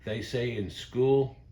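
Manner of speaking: lightly voiced grandmother, slow and emphatic; slow it down, imitating a grandma's insistence; quoted grandmama. Quoting what her grandmama told her, slow mock insistence. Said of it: "her grandmama told her something one time".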